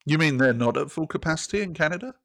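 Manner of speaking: sarcastic mock-innocent query; British sarcasm. Real, not acted. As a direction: feign surprise, rising at the end. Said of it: "my British sarcasm".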